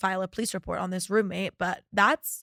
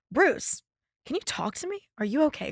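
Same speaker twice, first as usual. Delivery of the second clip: mock worried text voice; 7 semitones higher than usual. Reading her friend's worried text.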